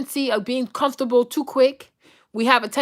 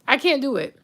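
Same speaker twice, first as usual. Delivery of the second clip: usual speaking voice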